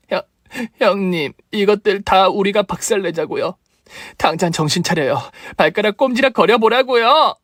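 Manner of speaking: high, pressing pleas to wake up; desperate coaxing at a hospital bed; urgent pleading. Acted. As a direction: shake her awake with your voice. Sister-in-law urging coma patient awake.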